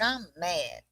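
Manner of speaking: mock-mad Southern kid; retold Southern kid grievance. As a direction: lightly imitate a Southern child in a huff. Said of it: "just real Southern kid style".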